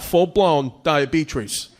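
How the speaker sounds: "diabetes" with an intrusive R, as "diabetrees"; extra R's. Retold or imitated. Comic mimicking dad's doctor report, extra R in "diabetes". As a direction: slip an R into the end of "diabetes". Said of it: "adding R's into words that don't need R's".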